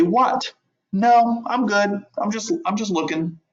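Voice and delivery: high startled no thanks; startled brush-off. Retold or imitated. Customer's brush-off, quoted.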